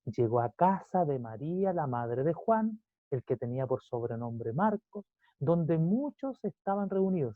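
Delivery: measured pulpit reading; scripture reading. Acted. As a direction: read the verse out solemnly, drawing out key words. Reads scripture aloud to congregation.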